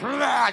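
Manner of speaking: rolled, blurted "rah"; quick nonsense burst; mock spewing noise. Miming stats thrown up at people, blurted growly noise.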